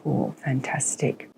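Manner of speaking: soft slow whisper; gentle whispered encouragement; whispered praise. Real, not acted. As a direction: hush so as not to break the calm. Quiet praise during breathing exercise.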